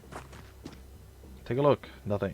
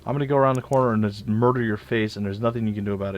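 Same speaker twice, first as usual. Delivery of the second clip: lightly voiced gloating aliens, louder; imitating the enemy; 4 dB louder than usual. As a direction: taunt like a smug enemy. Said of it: "it feels like they just go".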